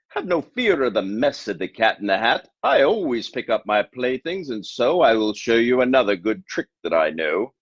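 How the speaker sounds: reassuring showman cat; cat promises to clean up the mess; breezy cat. Acted.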